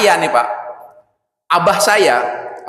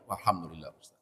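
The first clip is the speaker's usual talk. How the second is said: much softer, lower mumbled thanks; meek thanks; 9 semitones lower, 19 dB quieter, faster than usual. Acted. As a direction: mumble it meekly. Jamaah reacts meekly.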